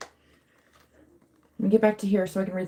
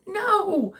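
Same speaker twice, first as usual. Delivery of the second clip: high, long mock cry; high-pitched little-kid plea, stretched out; imitating upset child; 13 semitones higher than usual. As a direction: mimic a toddler's wailed protest.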